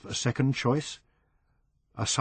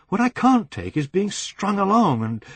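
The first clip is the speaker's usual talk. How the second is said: 1 angry outburst; 10 semitones higher, 5 dB louder than usual. Acted. Angry phone call to lover.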